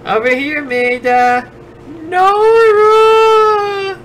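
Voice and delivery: high shouted nerd voice. Pretend. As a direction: call out like an annoying nerd. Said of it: "I can't do the, uh, nasally, annoying nerd voice".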